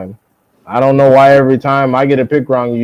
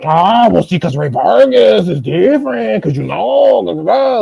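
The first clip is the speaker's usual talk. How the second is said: higher, mock know-it-all excuse; mocking imitation; 6 semitones higher than usual. Mocking a rival boxing pundit's excuses. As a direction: parody his hand-waving excuse. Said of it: "And then you'll be like".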